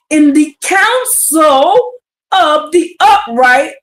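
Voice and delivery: slow, tearful, choked-up reading; moved to tears. Real, not acted. Reading scripture to viewers, a slow tearful emotional read. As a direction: let the words catch with emotion. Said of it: "got me all hyped".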